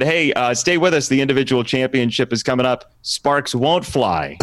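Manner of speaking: retaken sports promo line; corrected announcer tease; announcer read. Retold or imitated. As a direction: deliver the fixed tease like a broadcaster. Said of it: "let me do it again".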